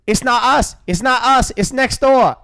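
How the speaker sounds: high, hurried denial; pre-empting blame; panicked son. Retold or imitated. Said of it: "the son is, goes".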